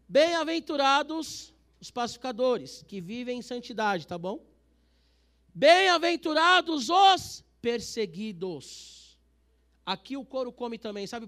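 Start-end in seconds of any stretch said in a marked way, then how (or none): 0.1-4.1 loud, slow proclamation; preaching at full force. Acted. 5.6-9.0 loud, slow proclamation; preaching at full force. Acted.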